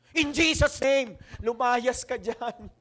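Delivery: slow mock rebuke of a spirit; mock deliverance. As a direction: cast it out slowly, hammed-up. Mock deliverance prayer, joking.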